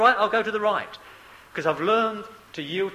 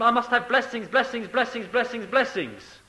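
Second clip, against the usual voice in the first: mock demanding; 4 semitones higher than usual. Mimics believers demanding endless blessings.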